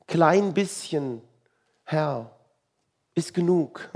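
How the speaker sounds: drawn-out, falsely modest little plea; mock humility. Believer humbly telling the Lord a little is enough, mock humble. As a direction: play at being content with crumbs. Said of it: "das klingt auch so demütig".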